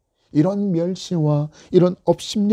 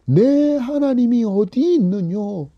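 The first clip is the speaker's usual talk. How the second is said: higher, slow jeer leaning on 어디; mocking taunt; 5 semitones higher, slower than usual. Enemies mocking the psalmist, sneering question. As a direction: stretch 어디 with a scornful fall. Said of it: "원수들이 조롱하면서".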